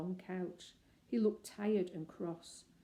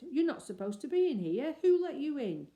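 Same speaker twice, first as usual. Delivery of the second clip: higher, louder challenge; crying out; 8 semitones higher, 8 dB louder than usual. Acted. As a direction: shout after the intruder. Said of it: "he cried".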